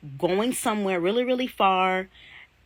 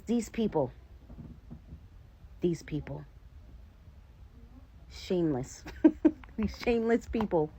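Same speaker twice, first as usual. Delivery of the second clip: put-on Nigerian accent; 2 semitones higher, 5 dB quieter than usual. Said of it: "mimic my husband's Nigerian accent".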